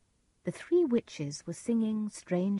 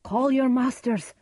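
higher, loud command; crying out; 6 semitones higher, 7 dB louder than usual. A narrator's reading. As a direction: demand it boldly. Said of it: "Macbeth cried".

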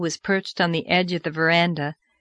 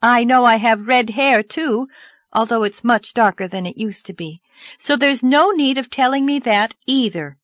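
put-on young girl voice; 5 semitones higher, 5 dB louder than usual. Narrator voices Anne.

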